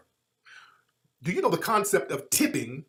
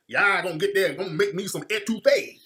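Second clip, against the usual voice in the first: mock Cajun accent. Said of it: "some of those Cajun backwoods dudes".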